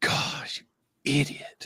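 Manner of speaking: hushed, quiet, breathy character voice. Listing favorite voices to do, doing a Napoleon Dynamite voice. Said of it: "I prefer the gosh, you idiot. The Napoleon Dynamite idiot".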